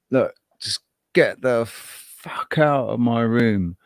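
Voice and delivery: slow, lightly put-on cockroach voice. A cockroach tells the roommate to leave, lightly voiced. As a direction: drawl it out like an annoyed bug. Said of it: "they say".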